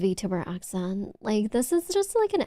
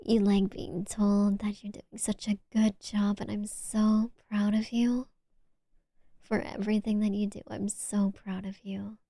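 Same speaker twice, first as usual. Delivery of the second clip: whispered praise. Shown as a demonstration. Praising the viewer in a tender whisper. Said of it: "big fan of praise".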